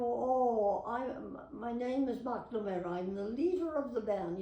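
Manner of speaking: cheery Irish brogue singing out a name; Irish accent. Shown as a demonstration. Switching to an Irish voice to quote an old song. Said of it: "I love Irish".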